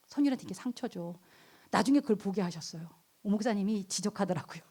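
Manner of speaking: ordinary delivery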